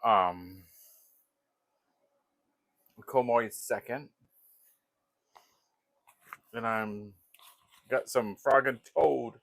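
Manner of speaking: talking around a pipe stem; pipe in mouth. Real, not acted. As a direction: speak while puffing a pipe. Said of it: "Let me light my pipe".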